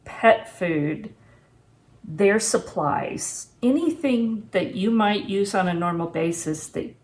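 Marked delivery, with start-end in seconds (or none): none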